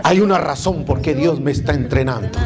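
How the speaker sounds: a proud, confident declaration; chest out, proud. Shown as a demonstration. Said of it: "así saque el pecho".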